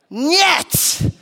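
high-pitched "Niet" with a y-glide after N; correct Russian NO. Shown as a demonstration. Preacher checks with Russian-speaking friends, careful Russian pronunciation. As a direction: say "Niet" as one syllable, nyet. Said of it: "is that how you say no in Russian".

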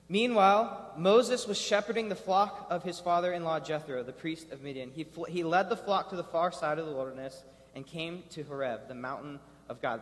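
steady reading voice; scripture reading. Acted. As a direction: read the passage to the room.

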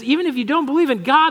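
normal talking voice

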